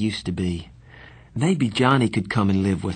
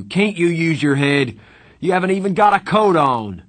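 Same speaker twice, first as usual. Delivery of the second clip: loud, higher-pitched scolding tirade; angry shouting; 5 semitones higher, 5 dB louder than usual. A narrator's reading. Darry berating his brother over the lot, angry shouting. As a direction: lay into him, building to a yell. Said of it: "He was shouting".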